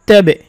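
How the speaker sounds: the বে bounces out of তাবে; qalqala bounce. Shown as a demonstration. Teacher showing qalqala to viewers, বা bouncing. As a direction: let the বা jump in তাবে. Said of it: "বাতে কলকলা করতে হবে".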